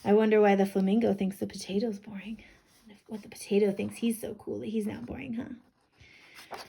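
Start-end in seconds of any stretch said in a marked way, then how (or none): 5.3-6.6 unvoiced, tiny question; whispered huh. Real, not acted. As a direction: breathe the huh.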